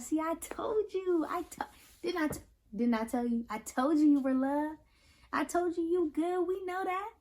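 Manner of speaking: cheeky and affectionate; playful told you so. Acted. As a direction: tease them fondly.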